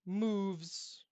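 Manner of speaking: measured, dramatic narration with long pauses; game master's scene setting. Acted. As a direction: narrate a fallen warrior's death solemnly, letting phrases hang.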